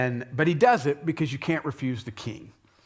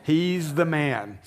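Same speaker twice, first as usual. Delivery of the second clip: Esther accusing; slower than usual. Retold or imitated. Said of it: "Esther's like".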